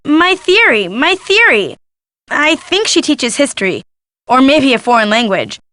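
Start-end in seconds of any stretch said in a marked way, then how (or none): 0.1-1.8 higher-pitched imitation of a wail; mock wailing. Guest imitates the professor who lost her theory, mock wailing. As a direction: mimic her lament, pitch up and falling. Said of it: "She just kept wailing".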